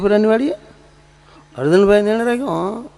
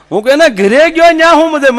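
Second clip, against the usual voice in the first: much higher, louder disbelieving question; incredulous retort; 12 semitones higher, 6 dB louder than usual. Acted. Teller challenging his friend's story, loud and incredulous. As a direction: fire back in loud disbelief.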